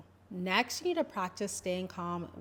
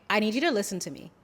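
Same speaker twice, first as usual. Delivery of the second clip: fast, pushy demand; a mild demanding push; harsh, demanding; 2 semitones higher, 4 dB louder, much faster than usual. Shown as a demonstration. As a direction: fire it off at your partner. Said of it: "See how that's a bit harsh, very demanding".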